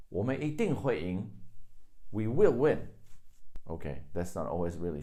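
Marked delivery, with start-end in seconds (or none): 2.1-2.9 WILL hit loud and high; emphatic certainty. Shown as a demonstration. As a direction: punch the word "will" with conviction. Translating an emphatic certainty example.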